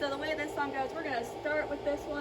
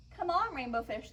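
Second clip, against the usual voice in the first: raised, lilting storybook call; 3 semitones higher than usual. Acted. Fish friends invite Rainbow Fish to join them, calling out. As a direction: call a friend over to play. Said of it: "they called".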